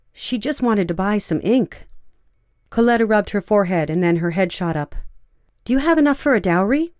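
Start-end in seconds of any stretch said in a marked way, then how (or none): 5.6-6.9 excited. A narrator's reading. Coletta's sudden idea.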